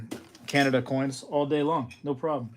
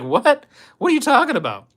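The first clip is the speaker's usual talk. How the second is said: high, loud, laughing disbelief; laughing at how absurd it was; incredulous disbelief; 11 semitones higher, 8 dB louder than usual. Retold or imitated.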